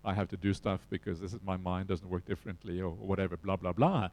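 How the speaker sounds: dismissive. Retold or imitated. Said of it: "I thought, "Yeah, yeah, whatever".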